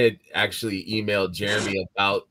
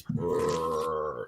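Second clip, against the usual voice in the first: low rumbling growl from the belly; deep rumbling; 4 semitones lower, 5 dB quieter than usual. Shown as a demonstration. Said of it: "just like this".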